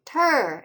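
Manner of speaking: "Ter" isolated and drawn out; slow, emphatic "Ter"; stressed syllable alone. Shown as a demonstration. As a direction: say "Ter" as a firm separate syllable. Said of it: "is accented".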